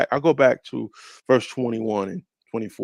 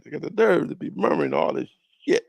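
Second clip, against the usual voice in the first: "nerve" passed quickly, higher-pitched delivery; quicker indignant retake; 6 semitones higher, faster than usual. Shown as a demonstration. Preacher complaining about the murmuring people, quick indignant delivery. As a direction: run on briskly past "nerve". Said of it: "I gotta say it like".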